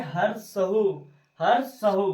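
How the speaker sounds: हर सहू with the final oo held; long vowel. Shown as a demonstration. Teacher showing long vowels, सहू drawn out. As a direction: stretch the end of सहू to double length. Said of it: "भाई कितना समय लग रहा है".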